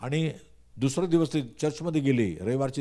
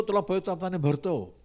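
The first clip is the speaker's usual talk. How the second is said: voice of God; 4 semitones higher than usual. Retold or imitated. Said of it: "पण देव म्हणतो".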